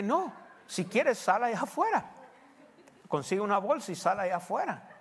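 pastor's firm comeback; firm retort. Retold or imitated. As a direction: tell her plainly to go fetch it.

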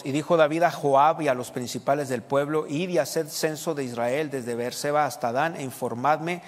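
scripture reading. Real, not acted. Reads scripture aloud to congregation.

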